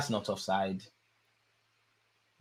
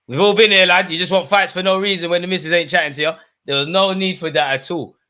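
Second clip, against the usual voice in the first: animated ranting; 6 semitones higher, 7 dB louder than usual. Real, not acted. Mock lecture on the brawler.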